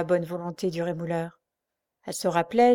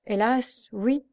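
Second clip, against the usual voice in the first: higher, mildly plaintive; sad; 4 semitones higher, much slower than usual. A narrator's reading. Blind girl confirming to Pierre, sad. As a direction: admit it with understated sorrow. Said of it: "en hochant tristement la tête".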